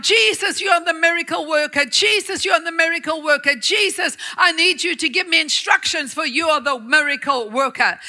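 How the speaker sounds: urgent, quick pleading prayer; desperate repeated plea. Retold or imitated. Father pacing the floor praying, urgent pleading. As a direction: beg over and over, pacing. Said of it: "pace the floor up and down".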